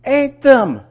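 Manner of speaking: high, loud disbelief; incredulous. Acted. Storyteller repeats the dog's misdeed, incredulous. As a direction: exclaim it as an outrage. Repeats shocking fact for effect.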